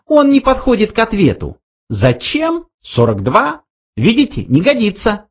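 high, fast mouse reply. A narrator's reading. Frankie answers Arthur, high fast mouse voice. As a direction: rattle it off.

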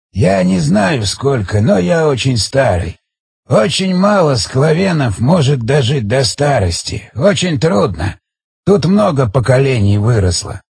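slow, lightly voiced old man; a hint of an aged storyteller; ancient village elder. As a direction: explain haltingly, drawing words out.

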